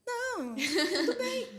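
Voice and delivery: high, slow, giggling "okay, fine"; laughing surrender. Retold or imitated. To Jesus, backing down from the demon, laughing. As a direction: give in to Jesus with a helpless laugh.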